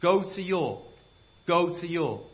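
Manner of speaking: mild ghostly summons; mysterious voice. Acted. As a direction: call him from a dream. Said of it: "he heard this voice".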